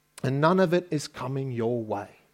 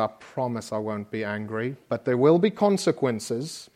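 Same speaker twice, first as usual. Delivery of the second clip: controlled calm; 5 semitones lower than usual. Retold or imitated. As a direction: keep yourself calm for the child. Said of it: "I have to control myself".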